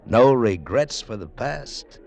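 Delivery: resolved. Acted. O'Hara's slow, resolved closing answer.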